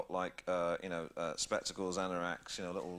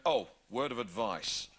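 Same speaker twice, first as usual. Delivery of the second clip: slow, weighty policeman warning, lightly imitated; mock a copper's solemn tip-off, slowly; a hint of a stern policeman; policeman's word of advice; 3 semitones lower, slower than usual. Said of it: "It's the way he said it".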